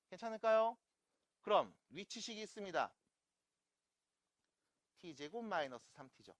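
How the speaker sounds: ordinary delivery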